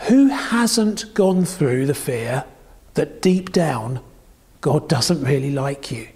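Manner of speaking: ordinary talk, nothing marked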